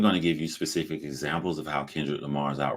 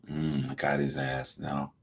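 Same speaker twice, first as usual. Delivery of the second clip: mock villain gloat; 4 semitones lower, 7 dB quieter, slower than usual. Mock rapper gloating to himself.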